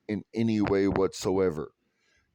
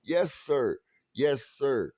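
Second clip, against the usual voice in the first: mock subservient; 3 semitones higher, slower than usual. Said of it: "You smile and go".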